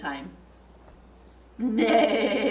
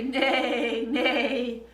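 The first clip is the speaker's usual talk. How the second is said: horse neigh. Pretend. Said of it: "that horse could say".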